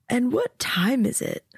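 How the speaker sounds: whispered, mid-yawn; sleepy whisper. A narrator's reading. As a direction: breathe it out half asleep. Sleepy girl woken before dawn.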